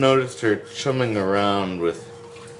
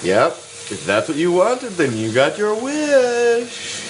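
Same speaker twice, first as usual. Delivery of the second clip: high, slowed, singsong segment announcer; show jingle intro; 8 semitones higher, slower than usual. Acted.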